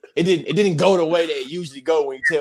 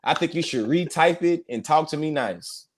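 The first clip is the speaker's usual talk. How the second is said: mock offence, half laughing; playfully sarcastic telling-off with laughter in it. Co-host jokingly scolding the commenter Tiffany, sarcastic. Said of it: "that was complete sarcasm behind my".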